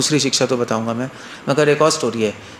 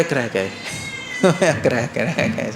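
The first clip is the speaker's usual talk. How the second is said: amused dismissal; 4 semitones lower, 5 dB quieter than usual. Acted. Villagers dismiss the laughing monk, amused.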